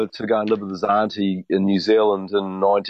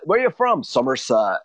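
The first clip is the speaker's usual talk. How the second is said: a light imitation of a Somerset local, the question pitched higher; Somerset accent; 3 semitones higher than usual. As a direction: play a Somerset local answering a stranger. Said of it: "that's what they talk like".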